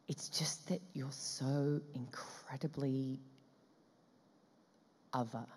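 slow, hushed, halting words; awed whisper. Retold or imitated. Director marvelling at actress, slow awed whisper. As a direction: whisper it, searching for the final word.

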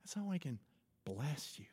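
soft, hushed voiced whisper; God. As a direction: speak very softly, with pauses. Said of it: "God whispers".

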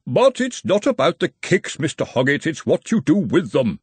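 a hint of a wheezy old academic; lightly voiced old dean. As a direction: patiently explain as the old dean. Dean explaining in character voice.

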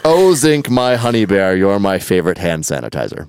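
croon-like spoken chorus, stepping down; hammed-up lyric recital; chorus recitation.

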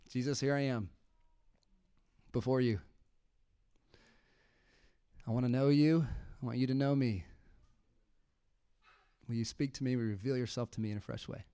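hushed private prayer, alone with God; soft spoken prayer. Shown as a demonstration. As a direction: pray softly as if alone. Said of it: "show you an example of what I mean by sitting at his feet".

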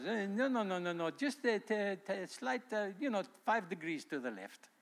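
put-on fussy course correction in a Jewish accent. God correcting someone's direction from behind, Jewish accent. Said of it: "it's got a Jewish accent".

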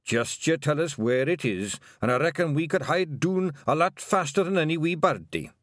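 high, eager Scottish voice; eager little Scottish pixie; daft Scottish pixie. Acted. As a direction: boast helpfully as a daft pixie. Narrator voices Daft Woolly.

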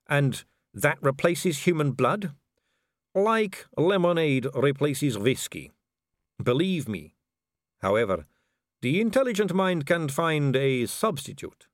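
a vampire noblewoman purring at a dangling man; suave vampire lady. Acted.

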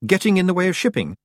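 high-pitched, understated horror; horrified. A narrator's reading. Tiffany picturing the iceberg among ships, mildly horrified. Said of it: "said Tiffany in horror".

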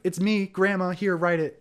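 high, coaxing grandma voice; sweet grandma voice. Retold or imitated. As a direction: coax a ghost gently. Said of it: "and is like".

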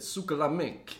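lightly imitated comic, a bit high; Joey Diaz. Quoting a favourite comedian's line, light laughing imitation. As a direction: quote it with a laugh. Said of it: "No, Joey Diaz. He, he said".

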